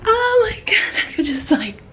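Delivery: breathless, whispered thrill; hushed joy bursting out; whispered excitement. Real, not acted. A vlogger whispering how excited she is. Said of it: "I'm so excited".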